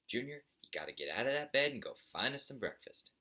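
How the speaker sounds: a hint of a crotchety father scolding his son; grumpy old buzzard.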